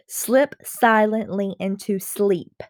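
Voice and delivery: "Slip silently into sleep" slowly, leaning on each initial s; emphasized s sounds. Shown as a demonstration. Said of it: "That sound at the beginning is what's being repeated".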